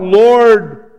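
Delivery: measured, pleading cry to the Lord; retold cry of a man praying. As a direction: cry out a prayer, drawing out the words. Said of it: "And he cries out".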